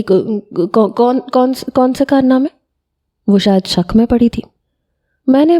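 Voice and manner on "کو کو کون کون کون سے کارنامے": nervous stammering, caught out; frightened stammer. A narrator's reading. Sister caught out by her brother, stammering fearfully. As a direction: stutter the first word, then rise higher in fear. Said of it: "وہ کچھ خوف زدہ ہوئی".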